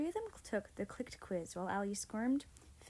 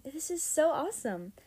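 high, loud and thrilled; excited yell; 6 semitones higher, 7 dB louder than usual. A narrator's reading. Girl jumping up and down as her friend arrives, yelling. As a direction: burst out with delight, stretching up in pitch.

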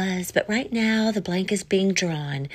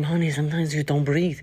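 mock husband, slightly low; lightly voiced made-up husband; 4 semitones lower than usual. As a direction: put on a lightly lowered husband voice. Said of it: "he does not have this kind of voice".

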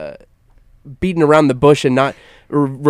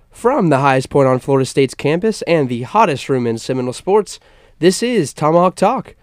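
rising announcer build into the show name; radio intro. Acted. Host opening the sports talk show, announcer read.

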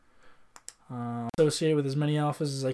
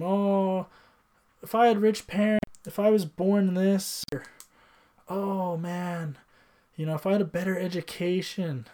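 higher, louder mocking whine; mocking whiny excuses; 5 semitones higher, 3 dB louder than usual. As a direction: sneer at lame excuses.

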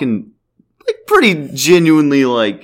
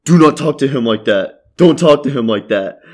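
lightly imitated German-accented English; mock a drunk German's halting English a little; broken English with a slight German accent; shitty English accent. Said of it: "in a really shitty English accent".

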